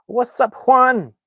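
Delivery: high, loud, drawn-out hello; shouted greeting. Real, not acted. Streamer greets an arriving viewer, high shouted greeting. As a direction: call out a big, high welcome.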